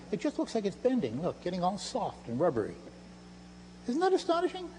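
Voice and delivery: rising high and hushed, playing up the wonder; stage magician's hushed mock wonder; mock astonishment. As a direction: sell the rubbery spoon illusion with hushed awe. Feigned amazement at the bending spoon.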